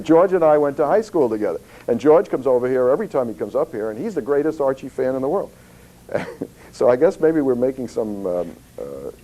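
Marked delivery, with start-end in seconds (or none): 0.0-5.5 put-on an accidental Southern accent, pitched higher; the Maine caller slipping into a Southern accent; a hint of a Southern old lady. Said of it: "Now she sounds like she's from down south".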